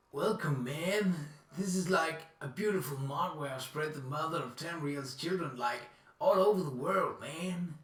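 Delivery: lightly voiced laid-back hippie; hippie impression. Player joking about Project Hippie, mock hippie voice. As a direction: play a hippie welcoming everyone, man. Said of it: "that's my hippie impression".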